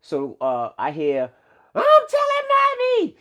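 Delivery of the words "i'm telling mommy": put-on high, slow child's tattling cry. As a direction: squeal it like a little kid telling on her brother.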